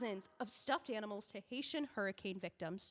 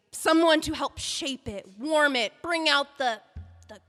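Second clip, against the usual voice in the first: forceful urging; 7 dB louder than usual. Acted. Urging the writer to soften.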